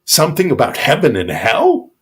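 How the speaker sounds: utmost disdain. Acted. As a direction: sneer at the warrior as worthless. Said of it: "with the utmost disdain".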